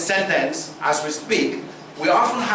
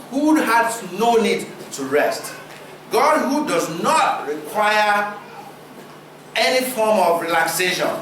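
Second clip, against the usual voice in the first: slow deliberate; 3 semitones higher than usual. Shown as a demonstration. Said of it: "intentional pause".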